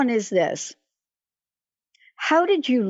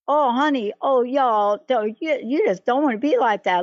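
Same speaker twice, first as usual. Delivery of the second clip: light imitated Southern drawl, a touch higher; 4 semitones higher than usual. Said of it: "she had this little Southern drawl".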